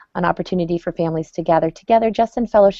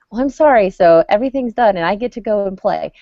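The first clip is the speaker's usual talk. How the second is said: put-on higher, louder breezy kid apology; mock child voice; 4 semitones higher, 4 dB louder than usual. Mom imitating her kids brushing off an apology, mock child voice. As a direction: play the kid who thinks sorry fixes everything. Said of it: "now they think".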